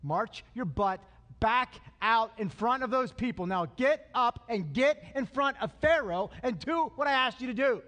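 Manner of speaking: rally him like a coach at halftime; God's pep talk. Retold or imitated. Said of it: "He gives them a pep talk".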